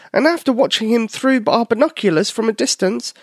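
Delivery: high, small mouse telling what happened; steady high mouse voice, a bit worried; little mouse voice. Acted. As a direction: voice a nervous little mouse reporting back. Tyler the mouse again.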